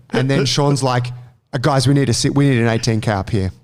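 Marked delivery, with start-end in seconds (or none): 1.5-3.5 mildly urgent, pressing radio call; retold urgency, stumbling over the words; urgent request. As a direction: imitate a boss urgently demanding gear. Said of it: "That urgency in his voice".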